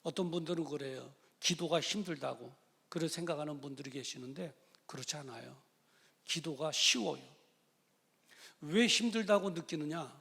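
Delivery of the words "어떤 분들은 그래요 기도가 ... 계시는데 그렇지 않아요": ordinary talk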